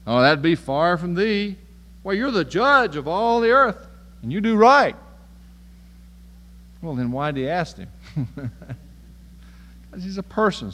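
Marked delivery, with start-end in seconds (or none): 0.1-5.0 louder, higher pleading to God; Abraham pleading loudly. Retold or imitated. Abraham flatters God as judge, louder, higher pleading. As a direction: lay it on thick, flattering the judge of all the earth. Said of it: "Abraham pleads".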